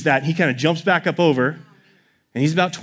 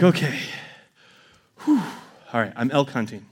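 low, soft self-reassurance after a big exhale; calming himself down; 4 semitones lower, 5 dB quieter than usual. Retold or imitated. Hunter steadying himself after the moose leave, calming down. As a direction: settle yourself with a long breath out, then speak low. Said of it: "I try and calm myself down".

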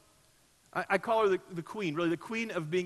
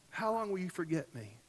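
much softer, hushed repeat of the cry; softer echo; 8 dB quieter than usual. Acted. Pastor repeats David's cry to God, hushed. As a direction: let it sink to a near hush. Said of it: "David cries out this question".

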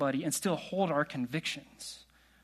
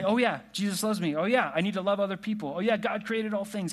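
rote pat answers; 4 semitones higher than usual. Retold or imitated. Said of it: "I know when I should say".

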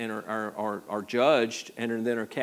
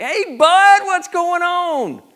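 much higher, louder, slow buddy-buddy hail; mock casual greeting; 13 dB louder, much slower than usual. John imagined greeting Jesus, in a mock breezy hail. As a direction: toss it off like greeting an old pal. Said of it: "he didn't talk to him like".

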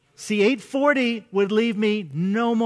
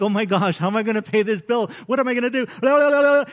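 mock panic; 2 semitones higher, 5 dB louder, faster than usual. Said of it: "You start to feel all worked up".

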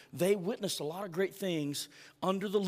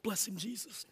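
put-on old church call-out; 4 semitones higher, 8 dB quieter than usual. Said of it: "the churches in the old days would say".

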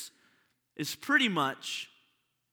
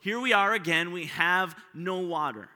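raised, whiny grumbling at Moses; hammed-up thirsty crowd protesting; complaining Israelites; 2 semitones higher than usual. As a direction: throw the complaint at him, indignant. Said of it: "they come to them and say".

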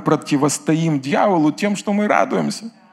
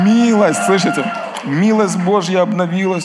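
excited shout; 3 semitones higher than usual. Retold or imitated. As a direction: shout it out with joy. Preacher quoting pastor excitedly. (восторженный возглас)

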